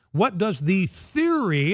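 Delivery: slow, with weight on "theory"; stress on theory. Shown as a demonstration. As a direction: lean into "theory", drawing the question out. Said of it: "and I emphasize the word theory".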